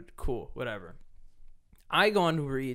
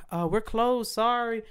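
dismissive worker voice; 8 semitones higher, slower than usual. Retold or imitated. Imitating worker dismissing him.

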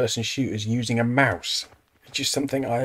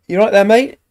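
mock concern; 9 semitones higher, 13 dB louder than usual. Real, not acted. Calling to a game character.

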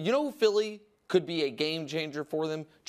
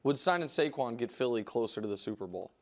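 imitating cohost, lower and quieter; Wilds impression; 7 semitones lower, 4 dB quieter than usual. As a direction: do your cohost's voice. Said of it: "Wilds, I'll be you".

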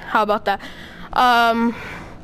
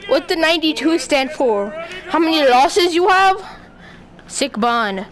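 put-on voice. Fighter quizzing his opponent about his shirt, lightly put-on voice. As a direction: needle the opponent in a slightly raised character voice. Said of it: "I'm gonna stop doing that voice".

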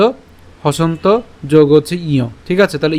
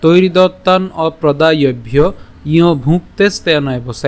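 slow shloka recitation; slower than usual. Shown as a demonstration. Teacher reciting the Gita verse slowly to the class. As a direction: chant the verse slowly and evenly. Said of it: "আজকের শ্লোকটি হলো".

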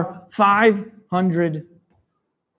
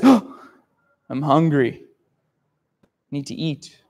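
lightly voiced lazy lion; a hint of a hungry lion grumbling; 3 semitones lower than usual. Lion answering the kings, mildly grumbling hungry. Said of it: "Lion says".

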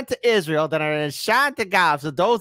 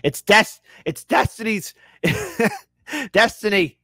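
laughing; 6 semitones higher than usual. Real, not acted. Laughing at chat line.

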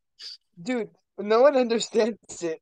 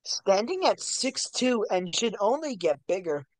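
sports announcer. Pretend. Mock sports announcer hype.

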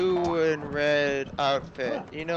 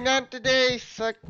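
put-on hillbilly accent; 5 semitones higher than usual. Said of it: "He's like".

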